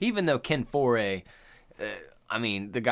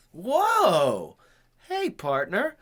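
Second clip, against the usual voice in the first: higher, lightly voiced laid-back cowboy; easy seventies partner drawl; seventies cowboy talk; 11 semitones higher, slower than usual. Imitating how people talked in the seventies, laid-back. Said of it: "people just had a different way of talking".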